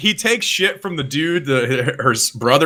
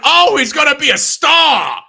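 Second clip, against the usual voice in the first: mock Mick; 8 semitones higher, slower than usual. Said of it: "he's like".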